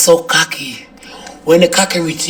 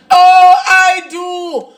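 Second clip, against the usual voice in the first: dreamy bride; 12 semitones higher, 4 dB louder, much slower than usual. Retold or imitated. Reenacting her wedding vows.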